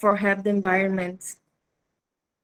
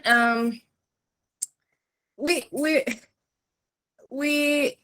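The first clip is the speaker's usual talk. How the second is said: stage fright; slower than usual. Real, not acted. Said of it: "I'm nervous".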